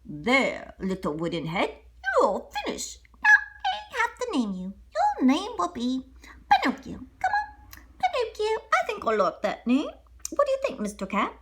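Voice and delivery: lightly voiced old woodcarver; a hint of a fond old toymaker; lightly voiced old man naming his puppet; Geppetto. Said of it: "Geppetto put on the last dab of paint and said".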